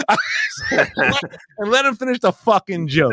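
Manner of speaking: laughing through the words. Real, not acted. Comic crows about letting the co-host finish his joke, laughing. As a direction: crack up while getting it out. Cracking up at own retort.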